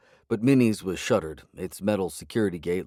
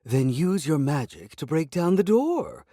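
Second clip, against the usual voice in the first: higher, tight, slow demand; through grinding teeth; 9 semitones higher, 4 dB louder than usual. A narrator's reading. Frustrated cat orders wizard to break the door, through teeth. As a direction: force it out through clenched teeth. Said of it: "said through grinding teeth".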